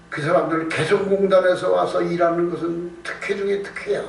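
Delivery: ordinary delivery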